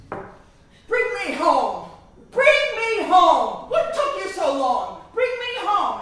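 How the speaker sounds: loud, slow, furious yelling at his daughter; furious shout. Retold or imitated. Furious father shouting at his daughter to bring him home. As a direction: bellow it like a raging old father. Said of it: "he is furious".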